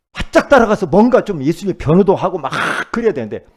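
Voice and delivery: loud, high, driving sermon voice; fervent preaching. Acted. Pastor preaching hard to the congregation, loud. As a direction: preach it out with rising fire.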